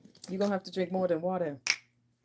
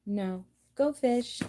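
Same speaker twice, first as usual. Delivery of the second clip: mock go fish reply; 5 semitones higher, 4 dB louder, much slower than usual. Acting out a go fish game.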